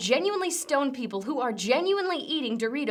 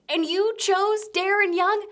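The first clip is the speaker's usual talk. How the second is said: high, loud, slow, disbelieving; incredulous shout; 8 semitones higher, 4 dB louder than usual. Real, not acted. Comic mocking the wrestler's dull name, slow incredulous yell. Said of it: "this was your chance".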